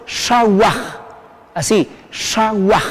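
"shawaj" carefully, with a final J sound. Shown as a demonstration. Teacher showing learners how it sounds, careful pronunciation. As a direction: model "shawaj" with curled SH and J ending. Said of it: "suena como J".

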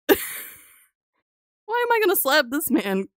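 slow, laughing disbelief; slow laughing question. Real, not acted. Streamer laughs at slapping a stranger. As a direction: laugh it out slowly.

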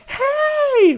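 high shrill mock yell of hey; retold screaming. Teacher screaming at parents in car line, mock yell. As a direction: imitate her yelling hey from afar. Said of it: "Like, screaming".

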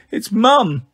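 high, drawn-out acted sobbing; gasping between sobs. A narrator's reading. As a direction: voice a little girl struggling to speak through sobs. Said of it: "she gasped between sobs".

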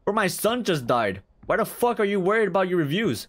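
outraged. Real, not acted. Outraged at funeral message.

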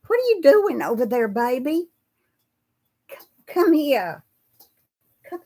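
fond, high call to a pet. Real, not acted. Coaxing a pet over.

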